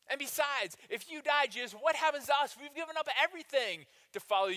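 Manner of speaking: panicked disciples. Retold or imitated. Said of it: "disciples react to burial".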